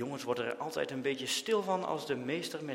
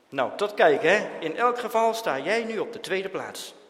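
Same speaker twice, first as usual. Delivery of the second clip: parting jab; 5 semitones higher, 9 dB louder than usual. A narrator's reading. Jan teasing while leaving.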